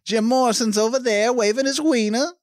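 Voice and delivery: high, easy showman welcome; smooth host Satan. Retold or imitated. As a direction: pitch hell like a lounge host. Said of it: "Satan's like".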